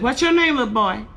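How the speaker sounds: lightly voiced teacher, high then dropping; sing-song teacher question, starting high; schoolteacher. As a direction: ask like a teacher addressing a child. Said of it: "So the teacher said".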